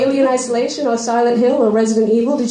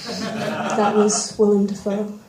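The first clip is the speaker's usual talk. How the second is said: laughing; slower than usual. Real, not acted. Laughs at own joke.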